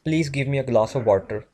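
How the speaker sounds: everyday South Asian English accent; desi accent. Shown as a demonstration. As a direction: say it in a desi accent, hard t and r in "water". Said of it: "ये होता है देसी accent".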